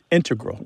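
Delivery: "integral" said as IN-te-gral, first syllable stressed. Shown as a demonstration. Host explaining the mathematicians' version to a caller, stress on IN. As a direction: hit the start of "integral", IN-te-gral. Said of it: "with the stress on the first syllable".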